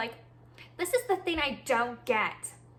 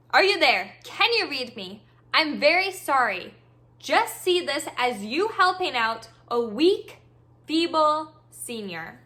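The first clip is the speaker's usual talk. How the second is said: mock pleading old lady; 6 dB louder than usual. Mocking the scammer posing as a feeble senior. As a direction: ham up the frail senior act. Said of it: "oh, this is what she says".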